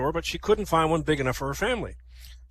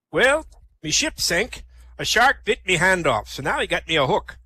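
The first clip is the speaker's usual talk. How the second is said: Sol; 3 semitones higher, 3 dB louder than usual. Acted. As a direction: stretch the opening like an old sea dog. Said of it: "Two pirates, Morty and Sol".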